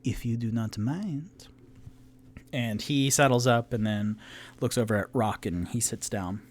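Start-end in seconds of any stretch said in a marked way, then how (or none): 0.0-1.5 1 suave tiefling. Acted. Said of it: "very suave".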